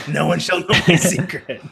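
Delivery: high, slow, hammy proclamation; melodramatic yell. Acted. Man alone yelling to nobody, hammy mock scream. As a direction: declaim it to an empty house, hammed-up.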